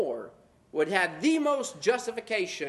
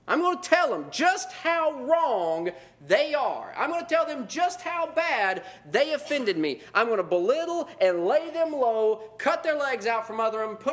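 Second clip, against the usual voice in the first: mock indignation; 4 semitones higher than usual. Preacher mocks offended brother with raised indignant voice. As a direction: ham up an offended churchgoer. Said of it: "we'll use verses like".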